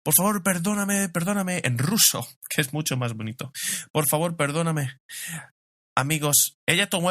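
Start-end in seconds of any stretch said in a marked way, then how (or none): 0.0-1.6 high-pitched mock crying plea; put-on pleading voice, pitched well up; imitated tearful pleading. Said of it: "Empieza a llorar". 3.9-5.0 mild mock plea, slightly raised pitch; understated imitation of a tearful apology; imitated tearful pleading. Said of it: "Empieza a llorar".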